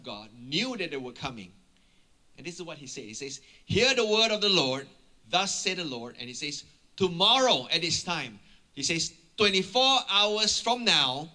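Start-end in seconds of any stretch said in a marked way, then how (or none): 3.7-6.2 louder, higher declaring voice; prophetic proclamation. Retold or imitated. Prophet proclaims God's word. 7.0-8.4 loud, emphatic announcement; prophetic proclamation. Retold or imitated. Prophet proclaims God's word. 9.4-11.3 slow, raised, louder declaration; prophetic proclamation. Retold or imitated. Prophet proclaims God's word.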